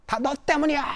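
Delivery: high, cutting accusation; husband lashing out at his wife; angry blame. Acted. Husband blaming wife in quarrel. (아내를 탓하는 화난 남편)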